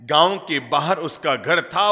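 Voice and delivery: ordinary talk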